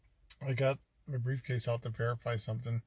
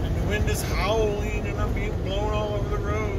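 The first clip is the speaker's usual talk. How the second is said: lightly held put-on voice; 3 semitones higher, 5 dB louder than usual. Vlogger signing off to viewers from Wyoming, lightly in a put-on voice. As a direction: keep the odd voice going, lightly. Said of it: "I don't know why I'm talking like this".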